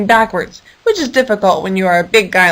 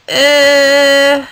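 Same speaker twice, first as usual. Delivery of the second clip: a short put-on elephant grunt; 5 semitones higher, 4 dB louder than usual. Eli the elephant unable to decide, grunting. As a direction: shrug it off with a creature grunt.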